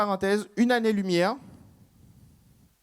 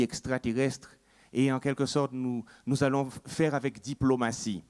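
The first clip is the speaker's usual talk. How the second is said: chef haïtien solennel; 5 semitones lower than usual. Acted. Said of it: "il les rassemble et puis il fait".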